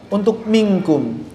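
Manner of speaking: minkum with thin, light kaf and nasal hum; correct minkum. Shown as a demonstration. Teacher modelling minkum for students to repeat. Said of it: "yang paling tepat menurut kami".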